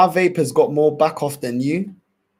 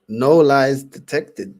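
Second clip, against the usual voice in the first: louder, slow and drawn out; loud emphatic verdict; 6 dB louder, much slower than usual. Real, not acted. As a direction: hammer the verdict home slowly.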